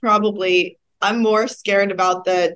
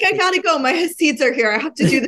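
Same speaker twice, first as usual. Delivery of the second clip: hurried doctor; 6 semitones higher than usual. Retold or imitated. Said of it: "he's like".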